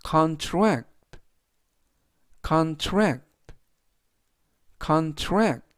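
teacher leaning on the second syllable of contract; stress on second syllable. Shown as a demonstration. Teacher models the noun for class, stress on TRACT. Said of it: "뒷부분에 있는 A의 강세가 있습니다".

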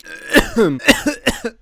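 harsh coughing from hot sauce; spicy coughing fit. Real, not acted. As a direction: cough from the burn.

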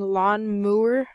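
"Mower" said with a cow's moo: MOO-er; cow-pun pronunciation. Shown as a demonstration. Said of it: "they put in a pun".

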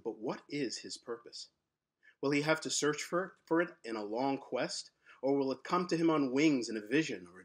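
measured, unhurried storytelling read; story narration. A narrator's reading. Author reading his story to listeners, measured storytelling. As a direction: draw listeners into the mystery.

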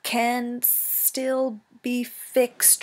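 slow, glitching machine stutter; garbled robot voice. Acted. Dying robot hunter addressing Roz, slow and garbled. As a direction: stutter and stretch it like a broken robot. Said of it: "spoke in a quiet, garbled voice".

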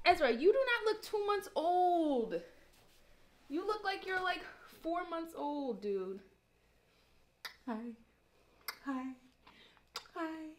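high slow fond talk to an infant. Real, not acted. Talking to the baby.

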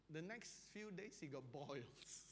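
normal talking voice

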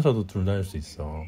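hushed voice. Real, not acted. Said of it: "조용히 해".

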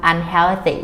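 "unhealthy" with a careful th before the final y; th sound pronounced. Shown as a demonstration. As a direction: remember the th in "unhealthy". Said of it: "อย่าลืมการออกเสียง ทีเอช นะครับ".

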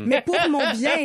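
laughing. Real, not acted. Ironic laugh about accent training.

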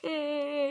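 short fake sobs "eh, eh"; light pretend sobbing for a little one; mock crying. Shown as a demonstration. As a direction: show the child how grandma cried, playfully. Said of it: "അമ്മൂമ്മ എങ്ങനെ കരയുന്നേ?".

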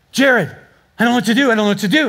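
mildly flustered, imitating a worried wife; mock-helpless phone plea; panicked wife. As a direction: act out a wife at a loss on the phone. Wife's panicked phone call retold.

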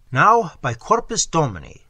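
formal ceremonial proclamation; solemn herald. Acted. Herald in strange clothes solemnly honours the soldier, ceremonial. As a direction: declaim like a royal herald.

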